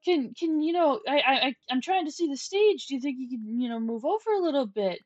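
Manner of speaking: lightly acted timid request; polite plea. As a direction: voice the shy comedian asking nicely. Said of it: "the comedian goes".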